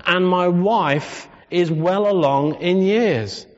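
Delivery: slow, a touch of scornful complaint; rude retort. Retold or imitated. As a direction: drag out the excuse to the angel. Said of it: "spoke to this angel so rudely".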